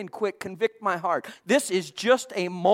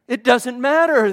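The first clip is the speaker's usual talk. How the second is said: louder preaching; 2 semitones higher, 6 dB louder than usual. Real, not acted. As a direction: push it out louder, full preaching force. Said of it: "Listen to this".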